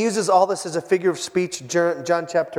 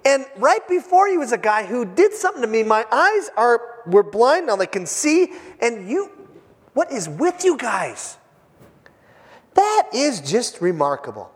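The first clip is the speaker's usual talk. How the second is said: incredulous healed man; 4 semitones higher than usual. Retold or imitated. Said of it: "I can just see him going".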